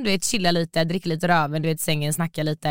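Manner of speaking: ordinary talk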